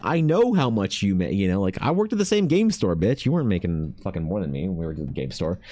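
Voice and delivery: teasing a friend who worked the same store; mock callout. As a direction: call the friend's bluff, half joking. Retold comeback to friend.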